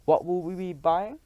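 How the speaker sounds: high, strange eager question; eager cry. Acted. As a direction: beg to know. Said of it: "she cried".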